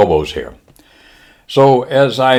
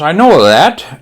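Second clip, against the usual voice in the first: high, loud mock-Japanese retort; Japanese admiral; 7 semitones higher, 6 dB louder, slower than usual. Admiral answering lieutenant, high mock-Japanese retort. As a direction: cut him short in a Japanese accent. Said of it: "The admiral says".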